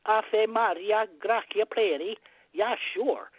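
put-on slow Latin in a Norwegian accent. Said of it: "serious Norwegian accent on the Latin".

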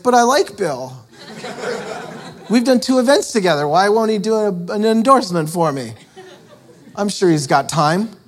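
high, laughing, self-mocking whine; mock whiny complaint. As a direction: play your younger self sulking. Retold whining about being snubbed.

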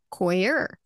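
"coir" begun like "coy", with an r ending; "coir" in two syllables, COY-er. Shown as a demonstration. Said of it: "as in, like, coy".

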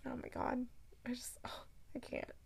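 barely voiced, hushed and giddy; overwhelmed whisper. Real, not acted. Podcaster overcome by a beloved book, overwhelmed whisper. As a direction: whisper it as if too overcome to talk. Gushing, too overcome to speak.

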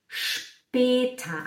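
espeta dito “shpêta”, chiado longo no início; SH em später. Shown as a demonstration. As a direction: segure o SH e solte espeta como “shpêta”. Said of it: "o S C H você faz". (“xxx-pêta” lento)

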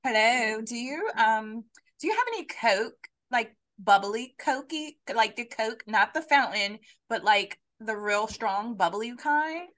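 slow, mock valley-girl customer; hesitant, drawn-out airhead ordering a soda; Becky. Pretend customer asking for Coke, Becky voice. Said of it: "I should do that one day".

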